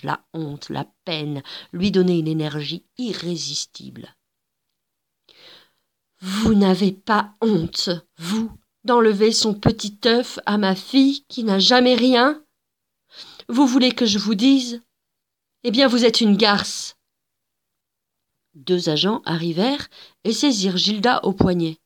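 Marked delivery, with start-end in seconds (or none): 6.2-17.0 colère qui monte, plus haute et forte; l'accuser avec rage; furieuse. Acted. Gilda furieuse contre la dame. (mère en colère, voix forte)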